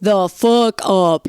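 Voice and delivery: drawn-out, slow scornful dismissal; mock outrage. Real, not acted. Host scoffing at the show hosts wanting credit, slow and scornful. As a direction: stretch it out in disbelief. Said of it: "finishing her retort".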